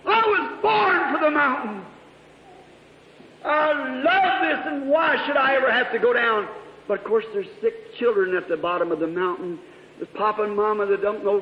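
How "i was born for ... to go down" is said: pleading prayer. Retold or imitated. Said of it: "I thought".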